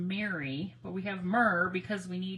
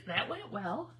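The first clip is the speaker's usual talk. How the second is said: laughing; slower than usual. Real, not acted. Repeated while laughing.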